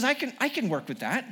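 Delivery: high-pitched put-on English accent; lilting mock-English voice; Jesus. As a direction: size up the job in an English accent. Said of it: "an English accent".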